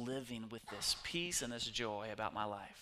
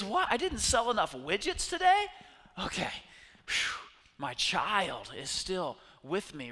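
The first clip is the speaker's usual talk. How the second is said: much higher, incredulous who-cares voice; mock dismissive; 6 semitones higher, 7 dB louder than usual. Preacher imitates the speaker shrugging off a ruined conference. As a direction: brush it off like it's nothing. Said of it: "He goes".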